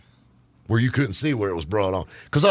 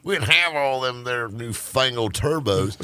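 lightly voiced grumpy old-timer; a hint of a cranky grandpa lecturing kids; old man voice. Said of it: "I sound like my damn old man".

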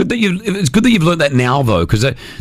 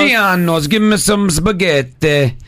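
put-on Italian accent; 2 semitones higher, slower than usual. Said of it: "Best Italian accent".

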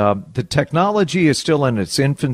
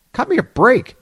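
indignant; 10 semitones higher than usual. Acted. Customer protests to robot.

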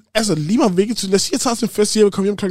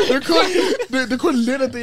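high, squeaky laughter through the words; can barely get it out for laughing; real giggling fit breaking up every phrase; laughing hard; 9 semitones higher, 3 dB louder, slower than usual. Real, not acted. Helpless laughter while telling story.

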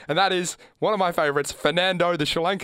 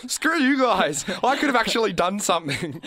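exasperated, pitched-up rant at the bowler; frustrated outburst; 5 semitones higher than usual. Retold or imitated. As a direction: vent like a robbed batsman. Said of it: "you're like".

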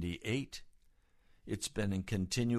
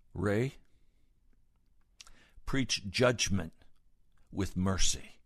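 utmost seriousness; slower than usual. Retold or imitated. Father in the faith charges a preacher, utmost seriousness. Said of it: "And with utmost seriousness, he said to me".

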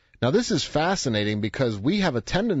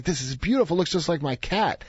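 retold excitement; 6 semitones higher than usual. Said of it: "The guy's so excited".

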